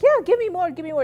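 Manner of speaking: eager encouragement. Retold or imitated. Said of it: "they're like".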